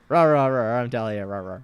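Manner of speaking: loud playful rah rah; mock Dahlia roar. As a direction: growl it like a cheerleader monster. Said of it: "let me show you how it's done".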